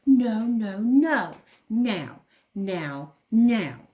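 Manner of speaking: put-on loud child's wail of no and now; tantrum. The little kangaroo shouts at her father to play now. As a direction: demand it like a furious toddler.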